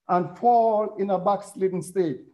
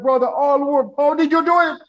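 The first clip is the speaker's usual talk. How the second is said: amazed question; 5 semitones higher, 4 dB louder than usual. Retold or imitated. Stranger at church asking the preacher in amazement, high and loud. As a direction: voice jumps higher and louder on "how did you do it".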